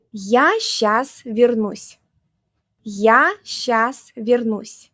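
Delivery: Я щас вернусь, every word slow and clear; slow and clear for learners to copy; slow repeat-after-me. Shown as a demonstration. Teacher has learners repeat after her, slowly. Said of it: "repeat these sentences after me".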